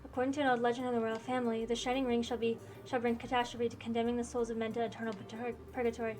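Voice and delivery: lightly voiced game characters in a dueling scene; reading game dialogue aloud. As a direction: read each character's line with mild drama.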